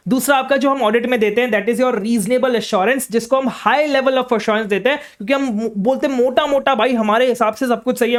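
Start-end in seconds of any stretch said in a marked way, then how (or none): 1.5-3.1 slow dictation. Shown as a demonstration. Dictating definition slowly.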